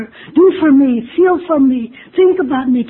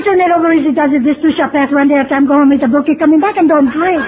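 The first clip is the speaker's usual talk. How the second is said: slogans rattled off a bit louder and brighter; parroting old-timers' slogans; 2 semitones higher, 3 dB louder, faster than usual. Retold or imitated. Old-timers answering a newcomer, brisk, confident slogan recital. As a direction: reel off the sayings like they're obvious answers. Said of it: "Hey, you say".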